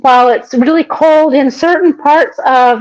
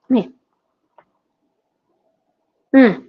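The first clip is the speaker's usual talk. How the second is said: savoring hum. Real, not acted. Tasting the tomato and cheese.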